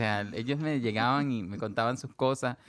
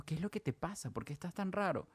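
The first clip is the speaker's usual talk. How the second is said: soft concern; 3 semitones higher, 9 dB quieter than usual. Retold or imitated. Teacher's concerned question, retold softly.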